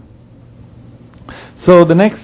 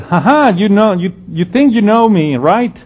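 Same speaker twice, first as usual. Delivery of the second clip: mocking laugh, then higher teasing tone; Jesus scoffing at the people in Jerusalem; very sarcastic; 3 semitones higher than usual. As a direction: laugh at their certainty. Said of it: "But very sarcastically".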